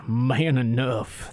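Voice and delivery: Man enough said very slowly, MAN drawn out; slow and macho on man; macho emphasis. Shown as a demonstration. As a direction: stretch out man enough, proving it. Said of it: "I'm man enough".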